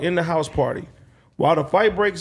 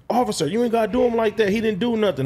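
retold protest; 5 semitones higher than usual. Retold protest to police officer.

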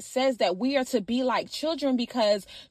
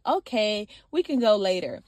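lower, gently imitated little boy's reply; calm and loving; 4 semitones lower than usual. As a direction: answer calmly, imitating an unbothered child. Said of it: "so calm and so loving".

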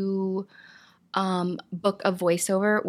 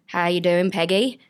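put-on New Zealand accent; 2 semitones lower than usual. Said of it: "a Kiwi talking like this".

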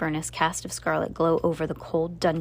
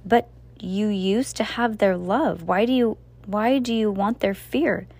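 slow, higher, pleading woman's voice; pleading housekeeper; 4 semitones higher than usual. Acted. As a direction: gently beg him to stop.

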